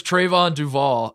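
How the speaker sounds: Trayvon said "TRAY-von", Duval ending like "all"; mistaken name pronunciation. Shown as a demonstration. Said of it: "he's like, No".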